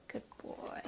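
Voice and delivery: soft whispered praise. Real, not acted. Whispering praise to her dog after he sits. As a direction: breathe the praise, no voice.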